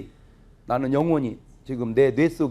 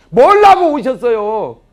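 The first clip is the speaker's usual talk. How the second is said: mock loud retort; 7 semitones higher, 13 dB louder, slower than usual. Son teasing mother.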